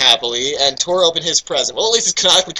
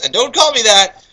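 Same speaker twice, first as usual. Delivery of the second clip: voiced Claus; 6 semitones higher, 3 dB louder than usual. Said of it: "said Claus".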